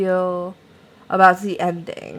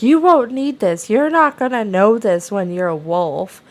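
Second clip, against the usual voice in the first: raised, higher mock yell easing off; retold scream; 4 semitones higher, 4 dB louder than usual. Shelby screams at him over his schoolbook, retold as a raised mock yell. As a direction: imitate her screaming at him, only half full force. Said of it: "she just screams at him".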